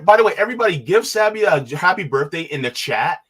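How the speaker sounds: loud, high, hurried interjection; excited sudden announcement. Real, not acted. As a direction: burst in with news for everyone. Sudden remembered birthday announcement.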